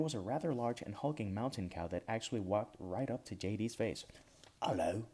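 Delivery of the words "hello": put-on gruff Highland accent. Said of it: "it spoke in a gruff Highland accent".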